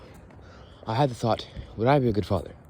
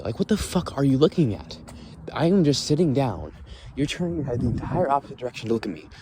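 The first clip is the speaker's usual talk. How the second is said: indignant rant; 5 semitones higher than usual. Retold or imitated. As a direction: scold him as if he could hear. Ranting at staring kid.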